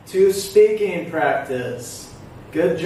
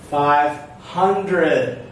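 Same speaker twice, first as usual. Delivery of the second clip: Five hundred split, HUN raised, then falling; stress on HUNdred; 4 semitones lower than usual. Shown as a demonstration. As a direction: pause after Five, lean on HUN. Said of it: "Do you hear the syllable stress".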